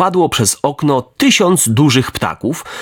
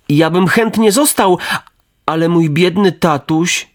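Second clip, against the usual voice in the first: put-on higher, boyish puppet voice; a boy torn between staying and his father; eager puppet boy; 5 semitones higher than usual. Pinocchio answering the fairy, higher and boyish.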